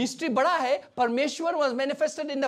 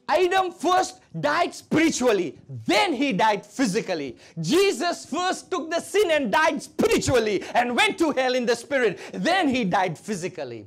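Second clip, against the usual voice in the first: emphatic preaching; 4 dB louder than usual. Real, not acted. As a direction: hammer out the parallel for the congregation. Preaches at full force.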